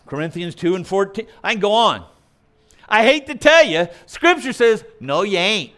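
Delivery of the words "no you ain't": blunt, deliberately ungrammatical retort; punchy slangy correction; bad English for emphasis. Shown as a demonstration. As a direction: say it like a flat-out rebuttal. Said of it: "I use bad English on purpose for emphasis".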